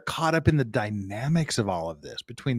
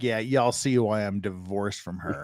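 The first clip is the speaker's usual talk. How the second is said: laughing imitation; 4 semitones lower, 4 dB quieter than usual. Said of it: "poor beat down guy here is like".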